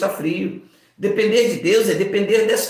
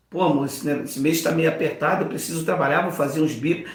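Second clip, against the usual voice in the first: softer, gentle words to his wife; talking sweetly to wife; 6 semitones lower, 5 dB quieter, faster than usual. Retold or imitated. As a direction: coax the wife tenderly. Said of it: "Eu falo com ela aqui". (falando baixinho e carinhoso com a esposa)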